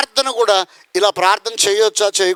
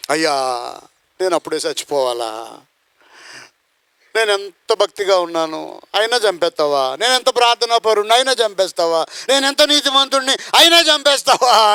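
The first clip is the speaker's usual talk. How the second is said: tearful plea. Retold or imitated. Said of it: "అని ఏడ్చాడు".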